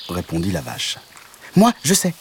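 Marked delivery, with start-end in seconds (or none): 1.6-2.1 much higher and louder, eager frog; high perky frog voice; proud little frog. A narrator's reading. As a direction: frog boasting he knows the way. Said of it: "dit la grenouille".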